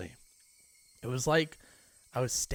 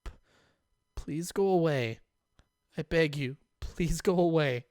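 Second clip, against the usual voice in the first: frightened begging; 4 semitones higher, 4 dB louder than usual. Acted. Keiichi begging Rena through the door, afraid. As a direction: beg her to leave, scared.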